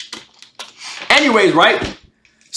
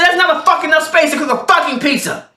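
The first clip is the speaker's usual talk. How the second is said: raised-pitch retold complaint; mock angry outburst; 8 semitones higher than usual. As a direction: imitate his outburst, voice pitched up. Repeats roommate's angry outburst.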